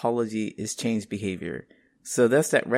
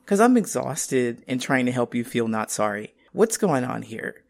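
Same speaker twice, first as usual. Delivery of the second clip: exasperated; 2 semitones higher than usual. Retold or imitated.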